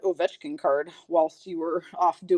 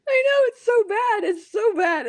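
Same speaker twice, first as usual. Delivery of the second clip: high, tearful laughing voice; helpless laughter; 12 semitones higher than usual. Real, not acted. Host admitting to viewers it's bad, in hysterics. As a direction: squeal it out, nearly crying with laughter. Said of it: "I really can't stop laughing".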